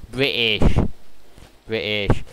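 mock British accent. Mocking British pronunciation of British.

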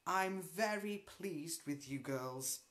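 almost pleasant. Acted. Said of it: "almost pleasantly".

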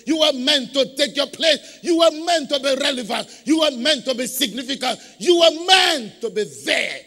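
rising from strong to shouted by the end; building preaching. Real, not acted. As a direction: preach it up till you shout the last line.

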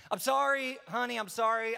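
acted sorry-honey excuse; pleading apology. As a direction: plead sheepishly for forgiveness. Acted apology to spouse after blowing up.

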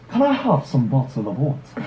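slow, put-on British accent. Shown as a demonstration. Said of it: "British accent?".

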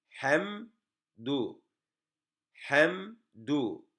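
"Hemdu" split after a held m; "Hemdu" as two separated syllables, hem then du; pausing on the mim. Shown as a demonstration. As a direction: rest on the m in "Hemdu" before du. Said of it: "Burada durak-, duraksıyoruz".

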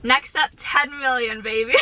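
dream big while giggling; half-laughing, teasing boast. Real, not acted. Joking big subscriber goal.

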